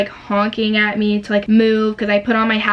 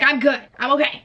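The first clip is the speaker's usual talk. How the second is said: higher-pitched, quick retold insistence; exasperated reassurance; 4 semitones higher than usual. Crash driver answering everybody's checking, mildly exasperated. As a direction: brush off the concern in a raised pitch.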